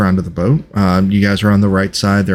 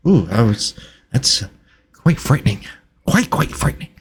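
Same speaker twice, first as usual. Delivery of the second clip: flustered researcher, mildly frightened; 2 semitones higher than usual. Acted. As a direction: start in a rush, then falter in mild alarm. Game master voices Reginald.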